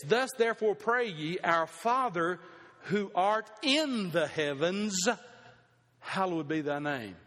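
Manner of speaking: slow, deliberate reading of the verse; slow scripture reading. Shown as a demonstration. Preacher reading a new translation to the congregation, slow and deliberate. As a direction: read each phrase slowly and reverently. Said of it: "read Young's translation".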